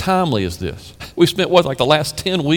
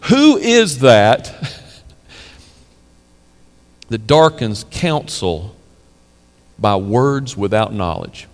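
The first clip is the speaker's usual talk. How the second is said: voice of God; 5 semitones lower, slower than usual. Retold or imitated. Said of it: "He says".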